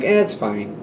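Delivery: low, soft shrug-off; flippant. Retold or imitated. The one who lost a house to a worried friend, flippant. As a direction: mimic someone brushing it off. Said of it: "a flippant attitude about it".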